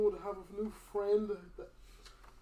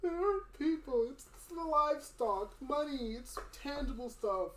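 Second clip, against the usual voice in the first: put-on higher-pitched, defensive old villager; scared old man; 5 semitones higher than usual. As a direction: justify yourself nervously in character. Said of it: "It's an old man that's scared".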